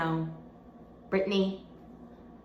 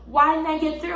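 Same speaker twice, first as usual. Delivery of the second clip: upset demand; 5 semitones higher than usual. Retold or imitated. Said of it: "I'm like".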